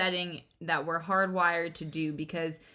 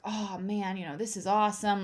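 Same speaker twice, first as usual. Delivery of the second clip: understated imitation of muted excitement; pleased but barely showing it; low-key enthusiasm. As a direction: imitate a partner who won't bounce off the walls. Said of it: "You have no inflection in your voice".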